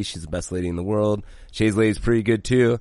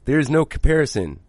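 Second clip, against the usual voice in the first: incredulous retort, retold; 4 semitones higher than usual. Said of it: "she literally laughed at her friend".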